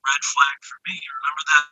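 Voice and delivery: muffled, distant, like underwater. Real, not acted. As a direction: sound through a bad connection. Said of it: "it sounds like he's underwater or something".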